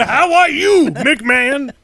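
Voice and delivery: laughing silly voice. Pretend. Continuing impression, laughing.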